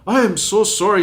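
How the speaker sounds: high-pitched, pleading mock apology; acted profuse apology. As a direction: imitate a remorseful driver begging pardon.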